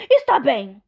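a hint of a greedy troll. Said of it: "disse o troll guloso".

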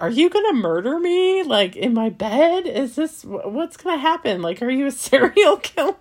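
the gym guy playfully panicking in bed; mock freaked out. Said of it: "really creeped out about it".

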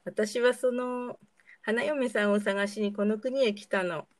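a hint of a meek prince; limp timid prince. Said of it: "と、なよなよ。".

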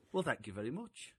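put-on mild, humble thank-you from an old gentleman; gracious thanks. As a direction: accept the odd compliment with quiet grace. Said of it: "it was so, so gracious".

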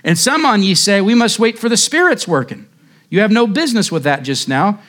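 hint of a broad Essex lay preacher pleading; a mild broad Essex accent in a preacher's fervour. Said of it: "said he in broad Essex".

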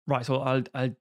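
lightly put-on Dublin accent; mock Dublin criminal. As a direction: play a criminal with a hint of Dublin. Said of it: "I'll do a Dublin accent".

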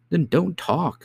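high, hurried retort from a nurse; harried nursemaid's retort; curt nurse. Acted. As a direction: cut the child off, high-pitched. Nurse snaps back while running.

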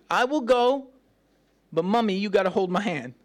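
mocking Barak as a scared child; high, clingy child voice; whiny little kid. Preacher mocks Barak as a child begging mommy. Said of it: "He's like".

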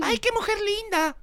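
very high, slow gushing; mock admiration. Man parodying what men don't say, high mock gushing. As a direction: coo it high and drawn-out. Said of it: "No. El hombre dice".

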